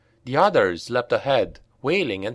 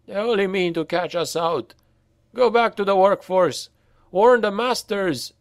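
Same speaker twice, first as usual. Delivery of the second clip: urgent slave; 8 semitones higher than usual. A narrator's reading. Slave urging the others away, high and urgent. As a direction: turn the others against them. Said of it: "said the slave who had first spoken".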